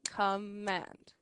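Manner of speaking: slow down on command, syllable by syllable; command, spoken slowly and evenly. Shown as a demonstration. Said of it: "a little bit slower".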